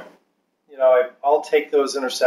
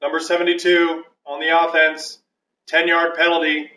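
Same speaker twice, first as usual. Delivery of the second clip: referee penalty announcement; 4 semitones higher than usual. Pretend. Mock referee calls a penalty.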